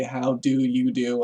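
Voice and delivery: how do you do drawn out slow, each word apart; slowly spelled out. Shown as a demonstration. Explaining where howdy comes from, slow and deliberate. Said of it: "howdy, obviously".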